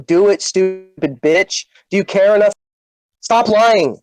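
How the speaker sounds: low, slow, cold ultimatum; cold anger. Real, not acted. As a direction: spell out the demand icily. Cold ultimatum after blow-up.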